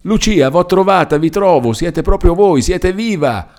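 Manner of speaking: very high-pitched, breathless-with-joy outpouring; overwhelmed exclamation. A narrator's reading. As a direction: exclaim as if finding a lost love alive. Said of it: "esclamò Renzo avanzandosi tutto tremante".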